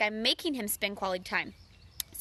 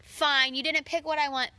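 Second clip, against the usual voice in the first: pouty. Retold or imitated. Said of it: "I get pouty, and I'm all".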